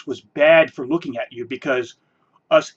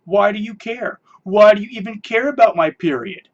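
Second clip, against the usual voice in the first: huffy mock outrage, rising louder; indignant parody, higher and louder; 4 semitones higher, 6 dB louder than usual. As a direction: imitate a defensive whine. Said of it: "you would then turn around and go".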